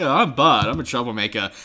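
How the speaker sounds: lightly voiced kid; a hint of a troublemaker kid; Bud impression. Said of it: "they're like".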